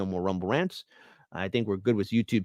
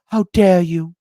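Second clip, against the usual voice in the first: mock outrage; 4 semitones higher, 9 dB louder, slower than usual. Mock offense at a super chat.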